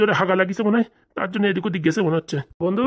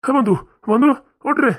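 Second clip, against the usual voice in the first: desperate pleading; 5 semitones higher than usual. Acted. Shaking a fainted friend awake.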